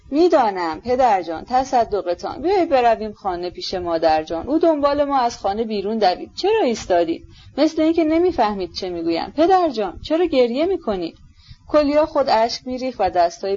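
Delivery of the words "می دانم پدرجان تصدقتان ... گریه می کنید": lively, urgent coaxing of a father; pleading son. Acted. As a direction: coax your distressed father to come home.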